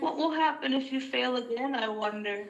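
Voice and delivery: lightly mocking villain's question; sarcastic Cossidon taunt. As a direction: needle him with a hint of sarcasm. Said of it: "sarcastic voice that Sybil can".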